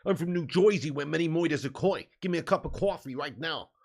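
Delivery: put-on New Jersey American accent. Streamer obliging a viewer's request, American accent. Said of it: "doing American accent".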